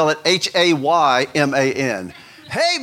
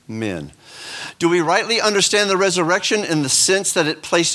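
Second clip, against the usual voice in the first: reading a sermon aloud; 3 semitones higher than usual. Acted. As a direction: lift it like a pulpit reading, measured and grand. Reads Tozer aloud to class.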